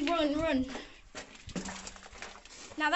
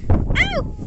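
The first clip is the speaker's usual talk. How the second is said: ouch; 10 semitones higher, 11 dB louder than usual. Real, not acted. Sudden jolt on rough steps.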